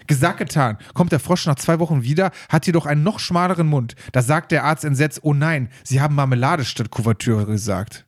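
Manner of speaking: measured read-aloud storytelling voice; joke reading. Acted. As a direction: read the joke out evenly, phrase by phrase. Reads another joke aloud. (Witz vorlesen)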